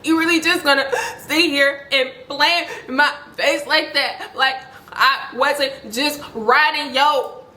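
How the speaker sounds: mock tearful, cracking voice; crying, voice cracking. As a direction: imitate a girl pleading through tears. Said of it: "her voice is, like, cracking because she's crying".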